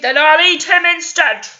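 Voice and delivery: troll shouts he'll eat the bigger goat instead; troll shouting. Acted. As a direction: roar it out like a hungry troll. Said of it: "he shouted".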